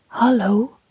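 gentle whispered hello; soft whisper. Acted. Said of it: "fluister ik zachtjes". (zacht gefluisterd)

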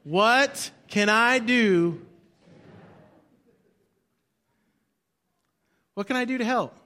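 "What can I do" drawn out very slowly; slow, deliberate call for all to repeat; slow unison lead. Shown as a demonstration. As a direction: lead the congregation, stretching each word. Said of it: "Here we go".

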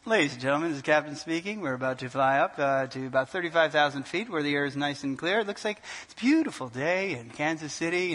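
lightly voiced captain's cabin welcome; melodic pilot voice. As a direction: play the reassuring captain on the intercom. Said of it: "you hear this melodic voice".

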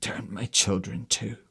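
hoarse, pleading voice. Acted. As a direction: force the words out hoarsely. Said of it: "she said in a hoarse voice".

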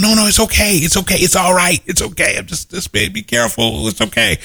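calm her down gently; gentle reassurance. Retold or imitated. Comforting the crying young woman.

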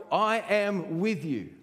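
slow, high, emphatic promise; acted insistent reassurance; God. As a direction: cut through with drawn-out insistence. God's slow answer to the excuses.

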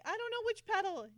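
high, loud flustered reply; flustered panic. Retold or imitated. Amanda answering Lee at the controls, high flustered panic. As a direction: sound overwhelmed and lost. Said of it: "she's like".

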